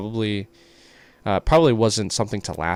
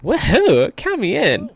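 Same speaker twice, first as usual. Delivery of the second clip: high, loud whoop; excited cheer; 14 semitones higher, 8 dB louder, slower than usual. Acted. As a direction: cheer it out, thrilled. Character cheering about treasure hunt.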